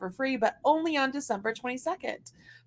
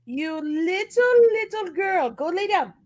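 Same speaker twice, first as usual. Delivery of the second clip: higher, drawn-out mock scold; scolding the dog; 4 semitones higher, slower than usual. Real, not acted. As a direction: tell the pup off, half amused. Scolding her dog mid-stream.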